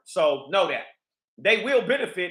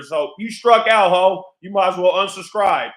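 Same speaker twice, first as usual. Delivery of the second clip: loud taunting; 7 dB louder than usual. Real, not acted. Taunting the woman directly.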